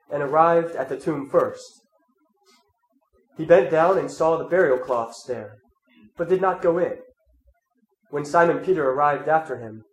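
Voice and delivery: measured, solemn Gospel reading; scripture reading. Acted. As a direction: read the Gospel to the congregation. Reads the Gospel aloud.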